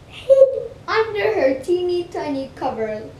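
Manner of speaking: high, loud frightened voice. Acted. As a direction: cry it out in fear. Scared hiding scene.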